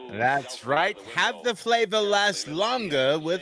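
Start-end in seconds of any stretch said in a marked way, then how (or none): 1.2-3.4 put-on old radio announcer. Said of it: "Old-timey radio?".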